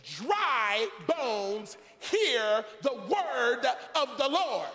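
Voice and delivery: emphatic pulpit order, slowing at the end; direct command. Acted. God telling Ezekiel to address dry bones, direct command. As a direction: stretch the closing words into a proclamation. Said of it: "a direct statement from God".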